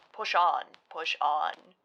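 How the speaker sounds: loud, bright urging, voice suddenly up; the hermit cheers the boat forward, loud; cheery call. A narrator's reading. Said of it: "said the hermit cheerily".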